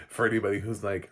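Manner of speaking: ordinary talk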